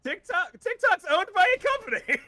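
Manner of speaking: high, loud, laughing through the retort; laughing disbelief. Real, not acted. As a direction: crack up while correcting him.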